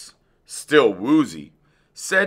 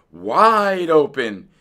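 loud, slow, drawn-out order; yelling; 6 semitones higher, 5 dB louder, much slower than usual. A narrator's reading. Dentist's wife to the patient, yelling. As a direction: stretch it out as a high yell. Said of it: "yelled his wife".

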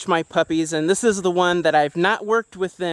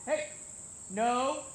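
firm no; 6 semitones higher, 13 dB quieter than usual. Real, not acted. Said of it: "I yelled no".

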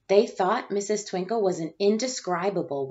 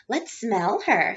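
slow, teasing sing-song; mocking girl; 3 semitones higher, 4 dB louder, slower than usual. Jo teasing Chrysanthemum in the playground, slow mocking drawl. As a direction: draw it out to mock her.

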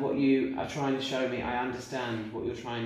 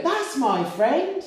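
much higher, louder, drawn out slowly; spirit's voice; 11 dB louder, much slower than usual. Retold or imitated. Medium quoting the spirit to his friend, high and slow. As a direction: hold each word of the spirit's line. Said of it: "you go".

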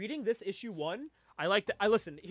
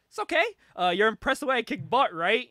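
cocky teasing Spice; 4 semitones higher, 7 dB louder than usual. Retold or imitated. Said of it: "And she goes".

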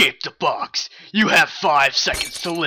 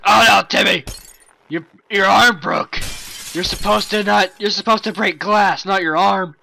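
loud alarmed scolding; 4 dB louder than usual. Acted. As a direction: scold him in a panic. Scolding Timmy over broken arm.

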